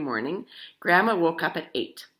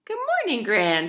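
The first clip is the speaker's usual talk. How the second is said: much higher, regal greeting; the Queen bringing breakfast; 5 semitones higher, 4 dB louder than usual. A narrator's reading. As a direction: greet her like royalty.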